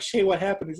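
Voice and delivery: high, loud mock worried call; mock concerned. Scheana imitated asking Shay, high and loud.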